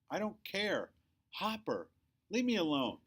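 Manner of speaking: put-on angry kid shouting at his mother; shouting back. A narrator's reading. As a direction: yell it at Mom, fed up. Child shouting at mom.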